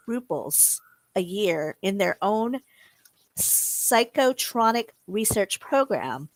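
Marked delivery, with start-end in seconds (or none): 3.4-6.3 careful articulation. Real, not acted. Careful first take of tongue twister.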